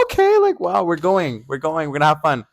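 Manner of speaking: very high-pitched retold glee; excited. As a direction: act out thrilled anticipation of a night out. Retold delight at getting tickets.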